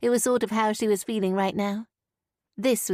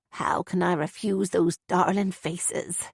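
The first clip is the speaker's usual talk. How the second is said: with a smile; 2 semitones lower, slower than usual. Acted. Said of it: "she said with a smile".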